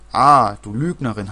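loud accusing cry; shouted. A narrator's reading. Girl yelling at her friend in a quarrel, loud shout. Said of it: "hat Marianne geschrien".

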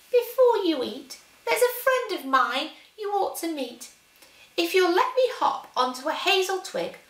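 high, quick little mouse. Acted. The mouse to the Gruffalo's child, high squeaky voice. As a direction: talk your way out as a mouse.

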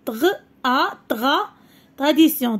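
syllable by syllable, then the whole "tradition"; sounding out syllables. Shown as a demonstration. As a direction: break "tradition" into tra- and -dition, then blend. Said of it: "teacher sounds out syllables".

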